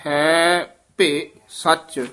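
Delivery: ਹੈ ਭੇ ਸੱਚ very slowly, with ਭੇ said with its ਸਿਆਰੀ as ਭਿ; slow ਹੈ ਭੇ ਸੱਚ, ਭੇ pronounced with the short i vowel; careful pronunciation. Shown as a demonstration. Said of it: "ਇੱਥੇ ਭੇ ਸਿਆਰੀ ਦੇ ਨਾਲ ਉਚਾਰਨ ਕਰਨਾ ਹੈ".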